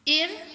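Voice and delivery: "इररेगुलर" as four isolated beats with long gaps; split into syllables. Shown as a demonstration. Teacher counting four syllables, "इररेगुलर" broken into four. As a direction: pause after each syllable of "इररेगुलर". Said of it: "four syllable है".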